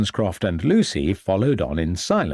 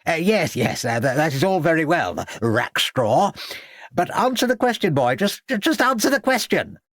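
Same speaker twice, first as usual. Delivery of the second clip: higher, exasperated headmaster pressing; irritated demand; 6 semitones higher than usual. A narrator's reading. Headmaster pressing the stammering boy, irritated. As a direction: push the boy for an answer, fed up. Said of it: "demanded an irritated Smeaton".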